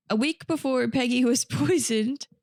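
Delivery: resume the story through a stray chuckle; laughing. Real, not acted. Host returning to the case after a digression, laughing. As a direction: laugh slipping into the sentence. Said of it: "I say that laughing".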